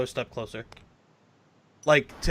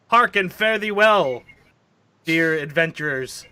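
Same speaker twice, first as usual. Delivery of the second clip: archaic farewell; 4 semitones higher, 4 dB louder than usual. Acted. Player voices farewell in archaic tone.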